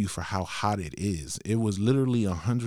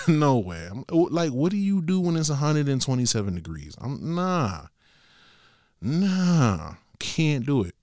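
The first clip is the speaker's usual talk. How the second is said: higher-pitched, laughing disbelief at first; incredulous refusal; 5 semitones higher, 3 dB louder than usual. Retold or imitated. Rider hearing the driver's heat story, incredulous.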